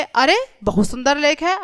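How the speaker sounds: understated surprise, lifting on अरे; mild surprise. Shown as a demonstration. Teacher acting out the exclamation mark, mildly surprised. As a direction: admire it with a touch of surprise. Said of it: "यहाँ पर आश्चर्य हो रहा है".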